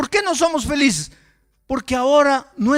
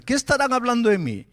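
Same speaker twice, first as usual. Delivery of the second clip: anxious thought; faster than usual. Retold or imitated. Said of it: "yo comienzo a pensar".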